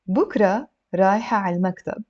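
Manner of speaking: slow, word by word model reading; a little slow. Shown as a demonstration. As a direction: separate the words for learners. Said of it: "a little bit slow".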